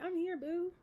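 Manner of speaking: hammed-up Aunt Flo, fake sobbing. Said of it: "Aunt Flo came and was like".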